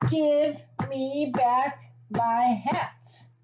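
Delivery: slow, drawn-out mock fury; mock furious. Hat seller stamping his feet at the monkeys, slow mock fury. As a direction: stretch it out like a stamping tantrum. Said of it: "The man was furious".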